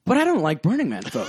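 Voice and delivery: I don't like Burning Man folk, said through a laugh; laughing confession. Real, not acted. Bartender admitting a dislike to the host, laughing. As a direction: blurt it out laughing.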